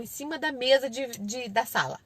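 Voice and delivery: ordinary delivery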